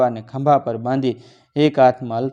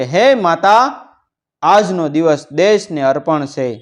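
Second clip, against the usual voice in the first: raised, stretched invocation easing into a vow; fervent prayer; 4 semitones higher, 5 dB louder than usual. A narrator's reading. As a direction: call on the mother in earnest prayer. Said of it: "પ્રાર્થના કરી કે". (ભાવભરી ઊંચા સાદે પ્રાર્થના)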